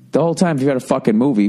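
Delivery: ordinary talk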